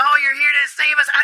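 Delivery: high, excited goblin voice, squealed out fast.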